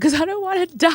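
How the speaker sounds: high-pitched mock wail, dragged out at the end; retold crying. Telling the cop why she's crying, imitated high wail. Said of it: "I'm still crying".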